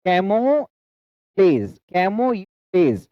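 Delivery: "camouflage" very slow, broken before "flage"; careful split pronunciation. Shown as a demonstration. Teacher shows learners how to read it properly, slow and split. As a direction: hold "camou", pause, then drop "flage". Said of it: "तो हमें सही से पढ़ना है".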